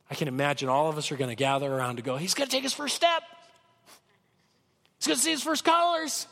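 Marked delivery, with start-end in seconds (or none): 2.1-6.2 giddy, high-pitched anticipation; excited onlooker. Acted. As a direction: marvel like a crowd gathering round someone's first steps. Imagined crowd cheering on the healed.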